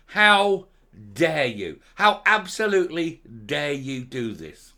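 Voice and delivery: indignant, rising fury; how dare you, with real outrage; furious disbelief; outraged. Real, not acted. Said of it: "I'm really angry".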